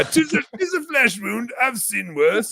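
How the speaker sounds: high, theatrical mock-heroic voice; put-on film-quote voice, absurdly unbothered; hammed-up brave knight. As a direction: brush off a wound like a comic knight. Movie knight quote played for laughs.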